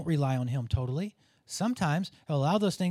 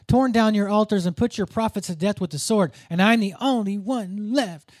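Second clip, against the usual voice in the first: whiny prophet voice; 2 semitones higher, 5 dB louder than usual. Acted. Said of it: "imagine this in whiny prophet voice".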